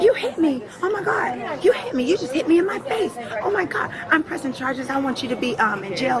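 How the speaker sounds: hammed-up high wail of a passenger crying assault; mock hysterical woman. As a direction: shriek it like she's been struck. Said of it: "And she's like".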